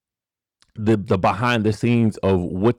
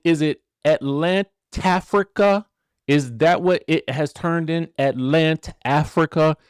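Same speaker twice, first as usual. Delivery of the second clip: mock puzzled; 6 semitones higher, slower than usual. Real, not acted. Mock wondering about new name.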